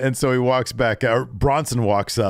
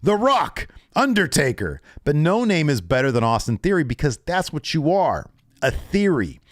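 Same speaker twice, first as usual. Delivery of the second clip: mock Cena taunting; 6 semitones higher than usual. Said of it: "he says".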